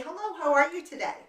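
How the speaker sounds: normal talking voice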